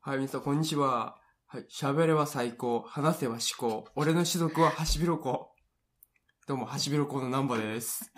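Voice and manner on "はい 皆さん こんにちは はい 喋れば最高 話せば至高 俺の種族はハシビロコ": slow rhythmic self-introduction; catchphrase intro. Acted. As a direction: deliver it like a signature greeting. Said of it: "ちゃんと挨拶考えてきたのに".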